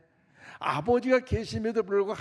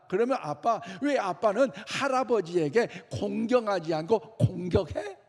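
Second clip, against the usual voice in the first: questioning son; 4 semitones higher, 5 dB louder than usual. Retold or imitated. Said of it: "그 아들이 하는 말이 뭐냐?".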